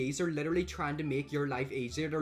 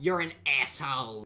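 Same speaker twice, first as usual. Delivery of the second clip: imitated New York or Boston accent, louder; 5 dB louder than usual. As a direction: throw the insult in a mimicked East Coast accent. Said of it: "Is that a New York accent".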